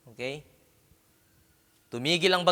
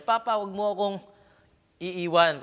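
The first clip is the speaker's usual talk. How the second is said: put-on higher, pleading child's voice; scared child; 5 semitones higher than usual. Child in water calling to father, frightened plea. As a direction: beg your father not to let go. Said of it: "sumisigaw siya".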